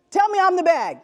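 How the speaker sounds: normal talking voice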